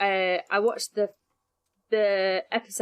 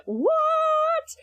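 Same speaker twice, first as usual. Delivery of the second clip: a sudden, very high squeak of disbelief; a stunned, high-pitched what from the whole room; shocked what; 3 dB louder than usual. Retold or imitated. Everyone reacts to the priest claim.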